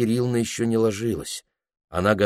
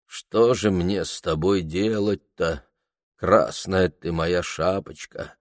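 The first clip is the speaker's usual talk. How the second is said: sad low voice; slower than usual. Acted. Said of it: "грудным печальным голосом".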